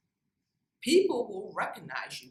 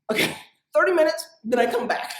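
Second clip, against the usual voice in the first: louder, higher, laughing through it; 8 semitones higher, 7 dB louder than usual. Real, not acted. Speaker laughing to audience about rushing promotions, laughing. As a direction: laugh at your own ambition, quick. Laughing at her own eagerness.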